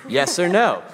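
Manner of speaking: playful pitch. Retold or imitated. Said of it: "I basically am like".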